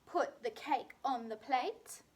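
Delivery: slow, with "on" lifted; slow, deliberate repeat. Shown as a demonstration. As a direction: spell it out slowly for the class. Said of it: "our sentence is".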